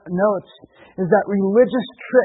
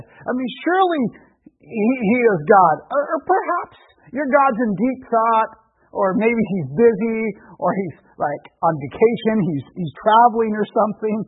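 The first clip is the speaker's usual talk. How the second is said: mocking. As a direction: tease with pretend reasonable excuses. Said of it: "he's kind of mocking them".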